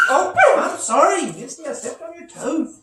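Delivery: high, gentle sorry to the pet; high apology to a dog. Real, not acted. Teacher apologizing to Misty for stepping on her toe, high and soothing.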